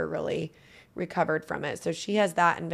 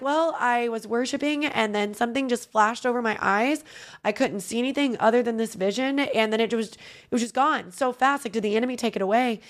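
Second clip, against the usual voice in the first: lightly voiced mom, a bit higher and rushed at the end; a hint of her mother, worried and a touch higher; mom upset on phone; 5 semitones higher, 3 dB louder than usual. Mom calling her daughter about the vanished vision, lightly higher and worried. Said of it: "And she's like".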